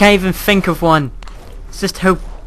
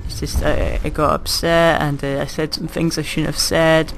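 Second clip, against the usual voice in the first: soft, hammed-up apology to Lara; mock tender apology; 4 dB quieter than usual. Player making up with Lara, soft mock apology. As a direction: coo a fake making-up.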